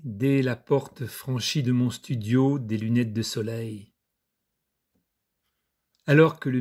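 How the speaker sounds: measured recital, pausing between images; poised reading of a poem; poetry reading. Acted. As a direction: recite it phrase by phrase, letting line endings fall. Reads his friend's poem aloud.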